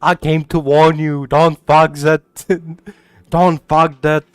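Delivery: attempted Austrian action-star accent; lightly put-on Austrian movie-hero voice; Arnold Schwarzenegger. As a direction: play at an Austrian hero warning a friend. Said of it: "I'm gonna sound exactly like Arnold Schwarzenegger".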